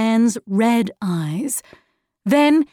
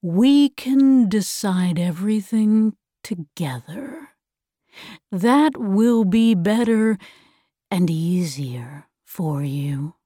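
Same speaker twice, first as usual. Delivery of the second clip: sinister persuader; 3 semitones lower than usual. Acted. The voice coaxing children to decide together, lightly sinister persuasion. Figure of the voice in the story.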